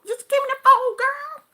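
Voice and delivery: very high, loud acted-out screech; exasperated yell. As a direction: blow up at the clerk, shrieking. Acted blow-up after warning.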